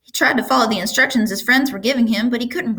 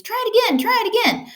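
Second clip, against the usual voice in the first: shouting goose; 14 semitones higher than usual. A narrator's reading. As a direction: squawk orders like a bossy goose. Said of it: "cried the goose".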